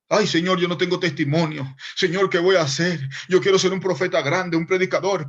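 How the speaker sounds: pleading prayer. Retold or imitated. Retold prayer in the hills.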